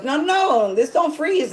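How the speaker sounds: high-pitched imitation of an objecting clerk; store clerk. Counter guy corrects customer about freezing, high imitated protest. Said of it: "the guy at the counter".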